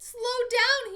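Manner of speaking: loud, high honked call; honking call. Acted. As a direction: shout after the running duck. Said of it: "he honked".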